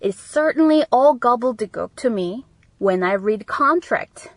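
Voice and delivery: slow, careful teacher read; deliberate classroom dictation; slow model reading. Shown as a demonstration. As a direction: read it out slowly for learners. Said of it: "그러니까 나한테는 가불대국이라는 거죠".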